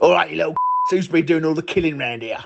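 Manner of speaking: put-on fast, rattled-off Cockney accent. Acting out why there'd never be a Cockney James Bond, in that voice. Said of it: "never be a Cockney James Bond".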